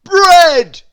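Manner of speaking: very loud, high, slow roar. A narrator's reading. Mister Noisy roaring at the baker, very slow. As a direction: roar every word, drawn out. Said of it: "roared Mister Noisy".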